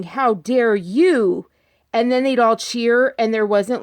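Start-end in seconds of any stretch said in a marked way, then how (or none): 0.0-1.5 slow, drawn-out mock "How dare you"; mock outrage. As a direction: spell each word out slowly, mocking. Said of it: "she was going".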